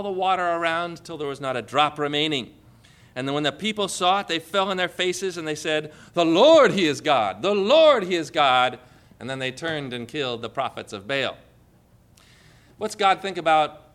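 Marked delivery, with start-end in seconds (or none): 6.1-8.8 proclaiming. Retold or imitated. People fall on faces, proclaim.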